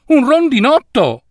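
"Un rondinotto!" said high with a stressed "un", falling; "Un rondinotto!" sung out high with a fall; high take. A narrator's reading. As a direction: pitch "Un rondinotto!" up high, punch "un". Takes of the same word.

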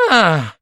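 contented sigh after a drink. A narrator's reading. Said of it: "esclamò sospirando". (sospiro soddisfatto)

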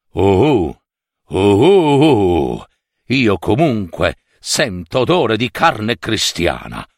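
hooting ogre's "oh oh"; lightly voiced ogre sniffing out prey; a hungry ogre scenting human flesh.

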